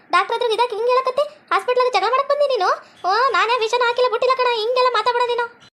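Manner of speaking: high-pitched quarrelling retort; indignant denial. Acted. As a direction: argue back as a wrongly accused wife. Accused wife quarrels back.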